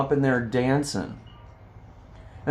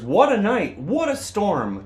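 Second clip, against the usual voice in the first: mole muttering; 8 semitones higher than usual. Acted. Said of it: "Mole mutters".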